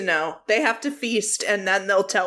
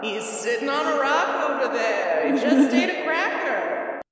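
put-on young person faking old; 3 semitones higher than usual. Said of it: "He can do a pretty good old man impression".

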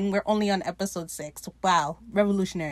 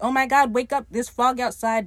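mock alarm, higher and louder; urgent wake-up call; 4 semitones higher, 5 dB louder than usual. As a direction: burst in to rouse someone. Voices crewman bursting in with alarm.

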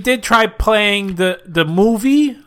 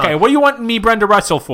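high voice; 5 semitones higher, faster than usual. Acted. Brenda on phone.

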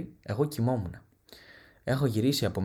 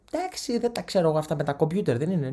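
higher, mock nosy aunt; lightly voiced nosy aunt; aunt's voice; 5 semitones higher than usual. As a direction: play the condescending old aunt.

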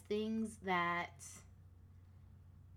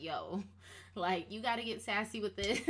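lightly voiced sassy inner soul. Creative soul nudging her to get sassy, lightly sassy. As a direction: give it a little playful sass. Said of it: "she's a little sassy".

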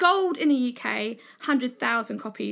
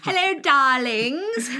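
slow, louder, husky-toned greeting; femme fatale; 3 semitones higher, 5 dB louder, slower than usual. Acted. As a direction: draw it out like a film siren. Sultry greeting game.

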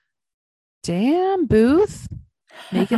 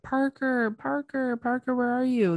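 calling out; 6 semitones higher than usual. Retold or imitated. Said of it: "they're both calling out".

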